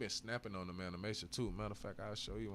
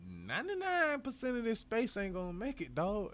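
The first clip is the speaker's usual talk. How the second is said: much higher, louder warning call; emphatic warning; 12 semitones higher, 6 dB louder than usual. Real, not acted. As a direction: warn them hard and loud.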